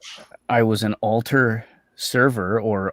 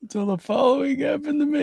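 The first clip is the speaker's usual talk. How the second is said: mock letter reading; 13 semitones higher, 3 dB quieter than usual. Joining the mock Penthouse letter.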